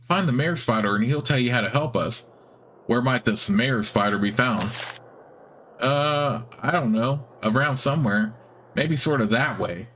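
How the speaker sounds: squeaky spider voice. Acted. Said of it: "It has a squeaky, high-pitched voice".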